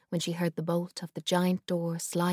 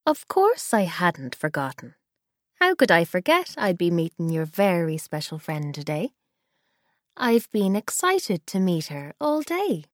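louder grandmother voice catching in the throat; hard, catching voice; 5 dB louder than usual. Acted. Grandma welcoming the girls, voice hard and catching. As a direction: speak as if something is trapped in your throat. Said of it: "Ellie's voice was hard, catching in her throat".

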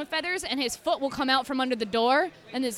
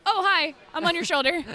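cheerful cat voice; 5 semitones higher, 5 dB louder than usual. Retold or imitated. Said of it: "Neo is like".

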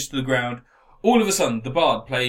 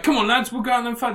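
rallying dwarf king; 7 semitones higher, faster than usual. Acted. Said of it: "he's like".

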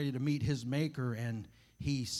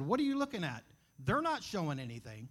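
indignant retort, pitch leaping up then dropping; retold loud retort. Father defending daughters at the mall, retold indignant retort. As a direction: re-enact a protective, affronted comeback. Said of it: "kinda loudly, I said".

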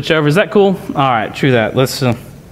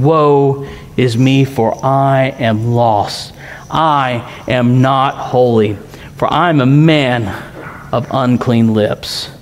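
hushed lament; 4 semitones lower, slower than usual. Acted. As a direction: let it sink low and slow, humbled. Preacher voices Isaiah's lament.

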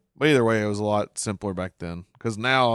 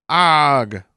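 mock yelp, louder; quoted pain cry; 4 semitones higher, 8 dB louder than usual. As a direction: read out the caption as a yelp. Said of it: "I quote the closed captions".

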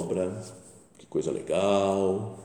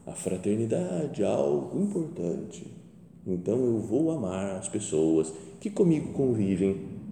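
mock pious; slower than usual. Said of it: "aquele papo".

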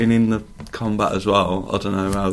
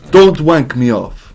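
ordinary delivery

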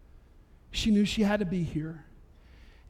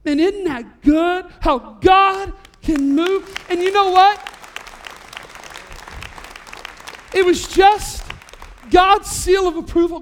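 high, loud, slow preacher's cry; slow ringing pulpit voice; preaching at full force; 9 semitones higher, 7 dB louder, slower than usual. Acted. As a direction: lift the room with each phrase.

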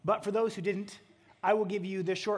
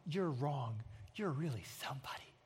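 soft hypothetical; 9 semitones lower, 11 dB quieter than usual. Pretend. Imagined God flattering Gideon.

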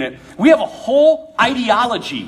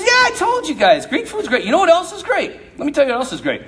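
salesman conqueror; 4 semitones higher than usual. Acted. Alexander selling Greek culture.

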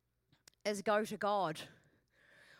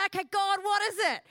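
higher, louder, fast and offhand; rushed, breezy prayer; 8 semitones higher, 5 dB louder than usual. Acted. Preacher mimicking her lazy self praying, fast and loud. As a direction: toss it off, rushing through.

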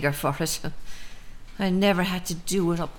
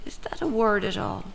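whisper; 2 semitones higher, 4 dB quieter than usual. Acted. Mother muses aloud to herself.

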